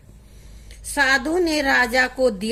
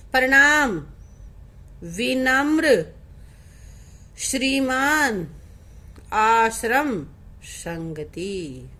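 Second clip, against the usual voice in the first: slow, drawn-out words, each set apart; repeat-after-me drill; much slower than usual. Shown as a demonstration. Teacher has pupils repeat after her, slow word-by-word drill. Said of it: "मेरे पीछे पीछे तुम्हें भी बोलना है".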